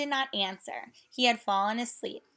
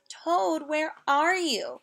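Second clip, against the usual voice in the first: calling; 6 semitones higher, slower than usual. Acted. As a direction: call out searching for a friend. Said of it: "called Frog".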